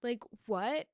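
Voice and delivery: rising, baffled "what?"; disbelief. Real, not acted. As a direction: ask "Like, what?" with a rising, incredulous "what". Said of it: "was telling me that I need to be okay".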